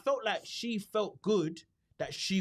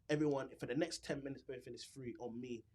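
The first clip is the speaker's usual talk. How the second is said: mock shop announcement; 5 semitones lower, 8 dB quieter than usual. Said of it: "make an announcement on the teller".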